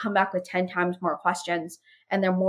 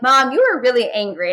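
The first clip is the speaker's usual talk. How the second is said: imitating a kid, slightly higher; lightly voiced child; 4 semitones higher, 4 dB louder than usual. Daughter to mom after the pillow scream, lightly voiced child. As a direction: lightly play the daughter, pitched up a little. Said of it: "Avery would be like".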